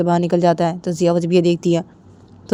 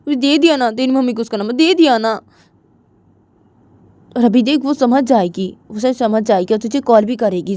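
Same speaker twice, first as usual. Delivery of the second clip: coaxing, a bit higher and louder; pleading boy; 5 semitones higher, 4 dB louder than usual. Acted. Adi pleading with Jiya not to be angry. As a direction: talk her round gently.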